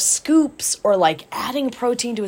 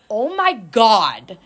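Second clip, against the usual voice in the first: drawn-out exasperated reaction; slow, retold disbelief; much slower than usual. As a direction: stretch it out in mock dismay. Dismayed reaction to client's protein total.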